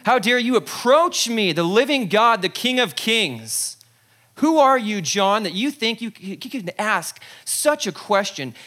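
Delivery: booming, indignant; a hint of a wrathful king; mock offended god. Jesus imagined as offended ruler, mild mock indignation. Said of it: "Or maybe he's upset".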